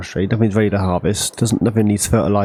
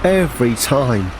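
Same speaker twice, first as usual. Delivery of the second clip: drawn-out, higher-pitched exasperation; exasperated; 6 semitones higher, slower than usual. Real, not acted. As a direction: stretch it out slowly, pitched up in exasperation. Exasperated reaction during solo game play.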